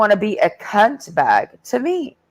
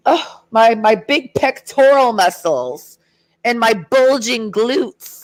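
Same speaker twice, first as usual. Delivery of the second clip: higher, slowed mock-proud muscle brag; mock preening gym bro; 3 semitones higher, slower than usual. Mocking Marcus flexing in her face, slow and higher. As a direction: ham up a vain flexer showing off.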